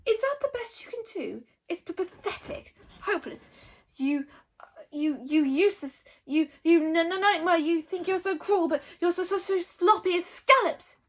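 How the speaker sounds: high stammering dragon taunts; jeering dragon. A narrator's reading. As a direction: keep jeering. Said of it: "jeered Toothless".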